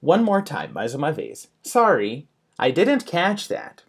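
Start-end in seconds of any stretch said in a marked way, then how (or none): 1.6-3.8 slow model phrase, "didn't" pitched high, "that" falling; demonstrated intonation. Shown as a demonstration. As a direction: stretch "Sorry", then lift "didn't" and fall away. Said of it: "intonation is very important".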